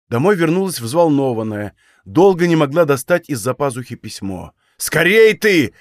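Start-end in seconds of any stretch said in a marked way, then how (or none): 4.8-5.8 louder, impatient snap at his daughter; sharp shout. A narrator's reading. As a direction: hurry her up with a bark. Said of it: "прикрикнул Пантелей Прокофьевич".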